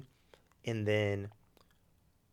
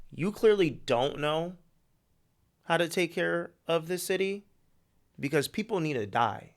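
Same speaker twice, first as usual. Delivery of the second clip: a wronged vigilante lecturing Batman, voice raised; angry Red Hood; 7 semitones higher, 8 dB louder than usual. Retold or imitated. Pitching the movie, voicing Red Hood scolding Batman, raised and higher. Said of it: "Red Hood is like".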